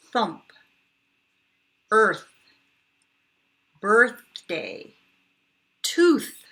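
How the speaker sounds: each word alone, loud, with a long airy unvoiced "th"; breathy th drill. Shown as a demonstration. Teacher drilling unvoiced "th" words for kids, loud and airy. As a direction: blow the "th" out in "Path", "Moth", "Tooth", "Thin". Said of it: "these are all the breathy ones".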